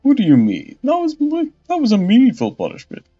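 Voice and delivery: loud, high, eager exclamation; giddy excitement. Acted. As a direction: gush with delight. Giles excited by punishment.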